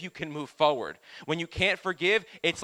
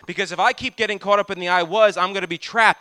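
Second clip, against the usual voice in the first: preaching shout; 8 dB louder than usual. Acted. Preaching climax.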